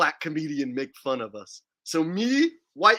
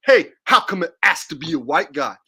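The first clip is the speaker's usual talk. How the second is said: hammed-up indignant stammer, louder in bursts; mock outrage; 5 dB louder than usual. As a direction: act out an offended listener challenging the comedian. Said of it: "and no one says".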